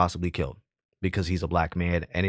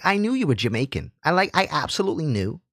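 lightly voiced, higher know-it-all manager; mock manager voice; 6 semitones higher than usual. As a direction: imitate her sure tone, pitched up. Mimics the white manager's remark.

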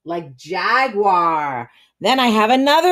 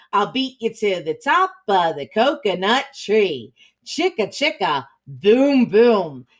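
put-on read-aloud to children. A narrator's reading. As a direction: read it like a chant to young children. Reads picture book aloud.

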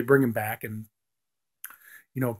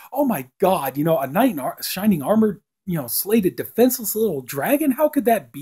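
higher, lightly hammed-up outrage; mock horror; 6 semitones higher than usual. Gomez and Morticia react to the dragon story, higher and aghast. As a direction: play the parents aghast at the fairy tale. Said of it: "they're totally offended by this".

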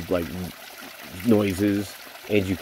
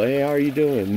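cheery greeting; 7 semitones higher than usual. Retold or imitated. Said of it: "not a fucking single".

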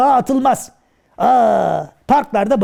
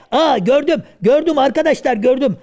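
higher, eager gördüm; excited; 3 semitones higher than usual. Acted. Karagöz excitedly tells the kids he saw it. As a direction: announce the sighting with excitement.

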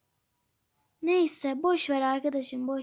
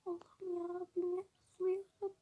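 breathless rejoicing; 3 semitones higher, 11 dB quieter than usual. Acted. Overjoyed exclamation to God.

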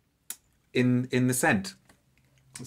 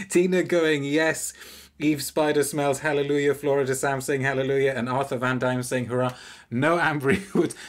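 higher and louder, gleeful; excited; 3 semitones higher, 4 dB louder than usual. Real, not acted. Reviewer gleefully reading out viewers' cheers, excited. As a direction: cheer along with the chat.

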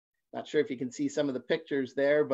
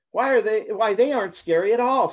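high, louder relieved giggly voice; giggling with relief; 6 semitones higher, 6 dB louder than usual. A narrator's reading. Little blue fish to rainbow fish, giggling with relief. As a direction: let relief bubble up, half laughing. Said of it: "giggling with relief".

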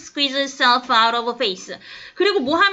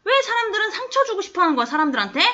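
higher-pitched retort as a question; asking back; 5 semitones higher than usual. Retold or imitated. The woman questions why people hurt people, asking back. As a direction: throw it back as a pointed question, acted lightly. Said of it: "되묻듯이 얘기해".

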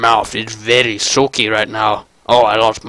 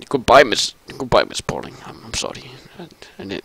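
sheepish farewell; 7 dB quieter, faster than usual. Acted. Acted apologetic farewell to Miss Pauling.

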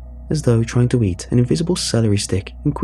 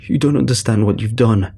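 lightly voiced angry grandad bellow. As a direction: grandad rebukes grandson over the teeth, bellowing. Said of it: "my granddad bellowed".

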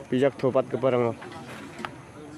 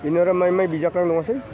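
fast, high, louder burst of disbelief; excited exclaim; 5 semitones higher, 4 dB louder, faster than usual. Real, not acted. Reacting excitedly to people joking around, fast and loud. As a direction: rattle it off in an excited rush.

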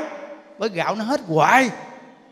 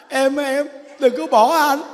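comic tearful begging, pitched up; hammed-up plea; mock pleading; 3 semitones higher, 3 dB louder, slower than usual. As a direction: imitate a husband begging his wife to stay. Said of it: "Con năn nỉ nó".

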